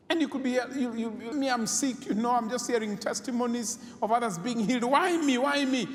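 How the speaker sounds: high, whiny why me; complaining believer. Retold or imitated. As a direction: voice a hurt believer asking why me. Believer voiced complaining about healing.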